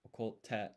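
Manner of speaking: "okote" with a short silent beat before an emphasized T; "okote" with a clear pause inside, then a firm T; double consonant. Shown as a demonstration. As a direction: stop briefly after "oko", then stress the "te" of "okote". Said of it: "You need that pause and the extra emphasis".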